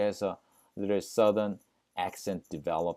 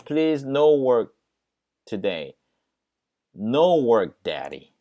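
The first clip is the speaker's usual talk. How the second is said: put-on 1 begging child; 3 semitones higher, 7 dB louder, much slower than usual. Daughter begs father.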